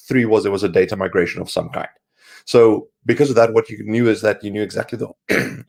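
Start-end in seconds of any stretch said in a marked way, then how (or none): 2.5-5.6 sick, hoarse throat. Real, not acted. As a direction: talk through a sore, hoarse throat. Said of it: "upper respiratory infection".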